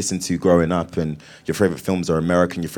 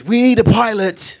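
the line redone slowly and higher in a British accent; 7 dB louder than usual. Shown as a demonstration. Demonstrating to the host how Finn would sound British. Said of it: "I tried to do Finn in the British".

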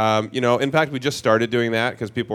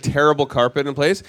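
ordinary delivery

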